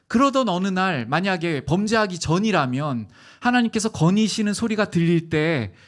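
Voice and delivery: ordinary talk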